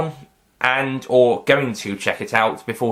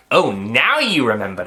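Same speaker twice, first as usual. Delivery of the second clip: attempted Scottish accent, swooping up on "now". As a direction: try the line in a Scottish accent. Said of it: "trying it in a Scottish accent".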